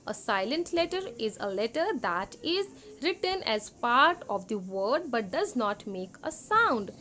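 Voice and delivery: slow, deliberate reading of English text; slow worksheet reading. Acted. Teacher reading the worksheet slowly to second graders. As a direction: read each word out slowly for young students.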